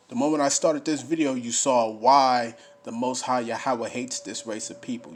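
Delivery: booming pulpit delivery; fiery preaching. Acted. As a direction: preach it to the congregation. Rereads verse, preaches loudly.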